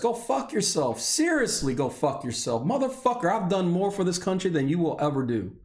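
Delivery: real indignant anger, pitch jumping high; high-pitched, offended tirade; angry outburst. Real, not acted. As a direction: lash back at your accusers. Lashing out at accusers in rant.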